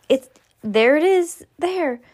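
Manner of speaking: high loud shout. Acted. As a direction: point and shout from the crowd. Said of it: "someone shouted".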